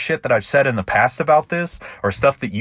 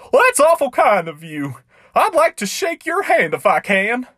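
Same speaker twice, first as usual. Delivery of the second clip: much higher, squeaky, tearful clown; crying clown voice; 13 semitones higher than usual. Acted. Clown begging the cowboy to believe him, high and tearful. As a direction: plead like a sobbing little clown. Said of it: "wiped his tears".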